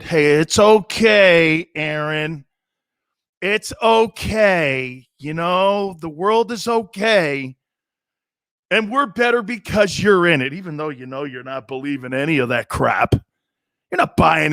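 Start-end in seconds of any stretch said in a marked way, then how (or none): 0.0-10.5 slow, patronizing head-pat voice; mock soothing. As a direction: soothe him like a sulky child, hammed up. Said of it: "Maybe you have to pet him on the head".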